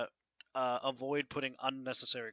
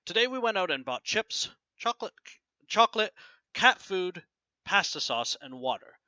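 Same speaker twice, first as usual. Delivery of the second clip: slow, a pause after each item; read slowly; 6 semitones higher, 3 dB louder than usual. Shown as a demonstration. Teacher reading the list slowly so students hear commas. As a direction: lay each list item out with a clear break. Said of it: "a little bit slowly this time".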